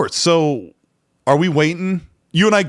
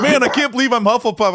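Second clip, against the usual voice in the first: retold disbelief; 8 semitones higher than usual. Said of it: "This one guy's like".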